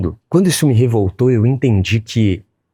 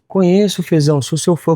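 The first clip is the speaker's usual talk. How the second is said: higher, eager fan voice; excited fan; 10 semitones higher than usual. Retold or imitated. Fan tells Fezão he is his fan, high and eager. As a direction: gush like a fan meeting his idol. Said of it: "fan on the street".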